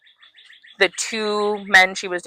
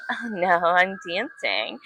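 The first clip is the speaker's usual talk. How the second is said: slow, softer, drawn-out teasing refusal; playful refusal; 6 dB quieter, slower than usual. Retold or imitated. Woman at club turning down a ride home, playful refusal. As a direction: stretch out a coy brush-off. Coyly refusing in retold flirtation.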